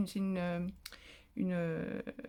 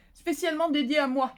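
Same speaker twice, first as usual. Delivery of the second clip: lecture fière de la carte; 4 semitones higher, 5 dB louder than usual. Retold or imitated. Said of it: "elle me dit".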